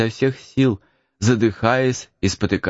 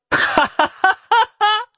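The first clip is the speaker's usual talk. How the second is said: high burst of laughter; mocking laugh; 3 dB louder than usual. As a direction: laugh at the name. Boy laughs at name.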